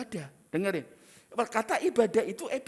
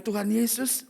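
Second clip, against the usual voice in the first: mock prayer.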